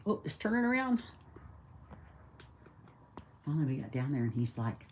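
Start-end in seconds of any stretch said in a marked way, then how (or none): 0.1-1.0 put-on kid voice.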